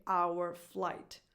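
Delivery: "our" in full, like "hour"; fully defined our. Shown as a demonstration. Coach showing what she doesn't say, full our. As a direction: give "our" a whole "ow-er". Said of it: "I don't say".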